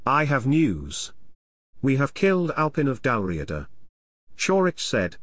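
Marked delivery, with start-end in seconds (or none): 0.1-3.7 put-on Pict accent. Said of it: "attempting to mimic the Pict accent".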